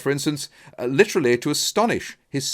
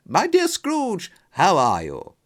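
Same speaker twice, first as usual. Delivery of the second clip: a bright hello from a friend in the street; gladsome greeting; 11 semitones higher than usual. Acted. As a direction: greet him gladly, pitched up high. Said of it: "with gladsome looks".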